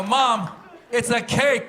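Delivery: loud, high exasperated cry; exasperated shout. Retold or imitated. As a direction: yell the punchline at mom in disbelief. Calling mom in outrage.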